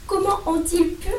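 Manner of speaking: high pitched tearful plea in one breath; sobbing. A narrator's reading. Hermione, shocked for Hagrid, says it tearfully in one breath. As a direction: cry it out, stressing comment. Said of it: "sanglota-t-elle".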